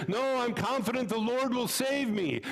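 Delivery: stubborn rabbi. Acted. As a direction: turn it down with calm confidence. Rabbi refuses rescue.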